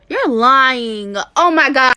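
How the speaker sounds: loud, high outburst of disbelief; can't believe what she just learned; loud stunned "oh my God"; shocked disbelief. Real, not acted. Reacting in disbelief to hack.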